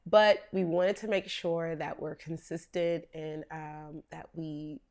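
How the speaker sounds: hoarse, strained voice; lost voice. Real, not acted. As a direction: talk through a voice that's nearly gone. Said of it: "as you can hear, I've lost my voice".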